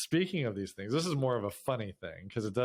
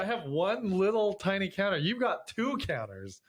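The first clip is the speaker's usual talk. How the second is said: higher-pitched mock complaint; amused protest; 7 semitones higher than usual. Husband to wife about unequal counter space, amused protest. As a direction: plead your case, half in fun. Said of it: "I'm laughing 'cause I'm like".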